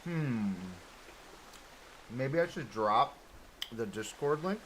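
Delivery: talking while chewing food; mouth full. Real, not acted. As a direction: say it around a mouthful. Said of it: "I'm chewing and eating".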